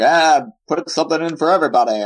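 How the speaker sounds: brash studio exec pitch; a light touch of a pushy producer; movie producer voice. Retold or imitated. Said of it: "That was a solid movie executive".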